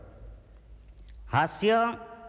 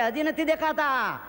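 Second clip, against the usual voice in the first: higher, slower mock shout from the crowd; mock yell; 6 semitones higher than usual. A listener yells at the comedian hanging from the rope, a hammed-up yell. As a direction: drag it out like a heckler yelling. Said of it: "એમ એણે રાડ નાખી".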